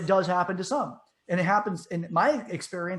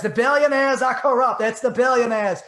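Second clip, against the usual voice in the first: loud, high, hammed-up senator rant; shouted political impression; Bernie Sanders; 6 semitones higher, 9 dB louder than usual. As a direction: indignantly blame a new enemy in a mock politician voice. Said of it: "his language switches like that".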